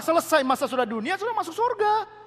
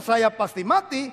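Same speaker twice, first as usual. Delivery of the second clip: drawn-out wrong take, said slowly; slow gloomy confession; 2 semitones lower, slower than usual. Shown as a demonstration. Preacher mocking a gloomy believer, slow. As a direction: say the doomed line slowly, as the bad example. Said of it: "Daripada ngomong".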